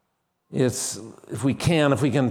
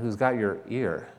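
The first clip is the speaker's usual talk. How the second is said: "ear" weighted at the end; stress on ear; 3 semitones lower, 4 dB quieter than usual. Shown as a demonstration. Preacher questions the congregation word by word, stress on ear. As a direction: hold back until "ear", then land on it. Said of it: "A different emphasis on different words".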